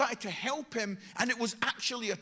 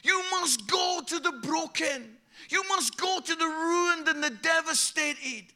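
higher, slow, forceful proclamation; Holy Spirit commanding; 4 semitones higher than usual. Acted. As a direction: call it out as a divine command. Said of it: "And the Holy Spirit says".

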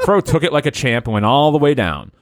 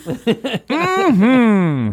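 put-on eager kid; 10 semitones higher than usual. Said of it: "said Fro".

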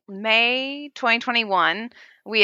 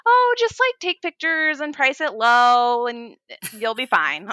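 high breezy carefree friend; 5 semitones higher than usual. Retold or imitated. Friend casually advises new seller, breezy voice. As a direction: toss it off like it's nothing, slowly.

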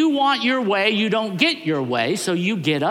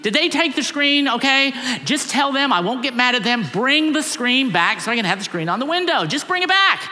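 pleading higher and louder, building to a near shout; rising plea; 6 semitones higher, 4 dB louder than usual. Retold or imitated. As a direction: push harder and harder, almost begging. Wife pleading, getting more insistent.

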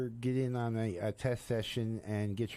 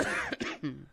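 smoker's rasp. Real, not acted. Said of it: "Keep that smoker's cough going".

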